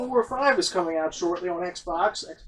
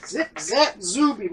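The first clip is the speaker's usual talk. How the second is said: slow drawn-out announcer call; 3 semitones higher, much slower than usual. Pretend. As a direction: announce it like a show title. Repeats name as sound effect.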